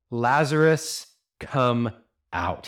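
raging command. Acted. Preacher as Jesus calling the dead Lazarus out, raging. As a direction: command it with anger, as if against death. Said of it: "There's some anger in this voice".

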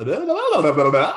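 laughing over garbled words. Real, not acted. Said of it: "I can't get my words out".

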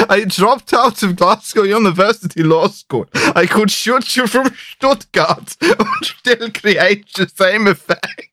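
laughing mock German villain; German accent. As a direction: parody the hitman in German accent. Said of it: "parodying Kaufman".

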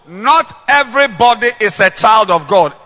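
voices chanting in unison; man and woman together. Shown as a demonstration. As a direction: say it as one crowd. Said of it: "Let's say together, one go".

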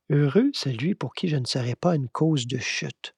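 hushed, musing delivery; meditative repeat. Real, not acted. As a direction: repeat it quietly, as something to ponder.

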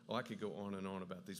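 quick, hurried aside; talking fast. Real, not acted. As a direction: rush through it to save time. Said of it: "Talking fast, sorry".

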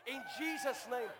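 preaching at the shoes; declaring over his sneakers, building preaching; prophetic declaration. Retold or imitated. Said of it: "I said".

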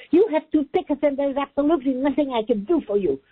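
high, sharp shouted complaint; retold shout. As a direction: snap it at the customer. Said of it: "she shouted at me".

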